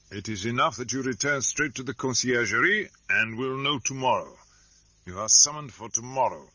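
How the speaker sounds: gruff official voice; curt commanding officer; stern officer. Acted. Officer orders the prisoner.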